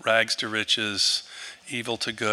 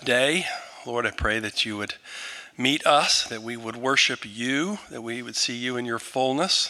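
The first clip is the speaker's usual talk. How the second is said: earnest, rising prayer to God; heartfelt prayer. Acted. Pastor praying for Ian before the church, earnest prayer voice. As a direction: pray over him before the congregation.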